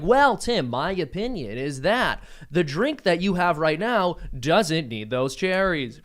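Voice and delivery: slow, measured, mock-formal pundit; lightly done newsreader to a podcast host; pompous news voice. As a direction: lecture Tim about his drink like a stuffy anchor. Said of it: "someone on this podcast like".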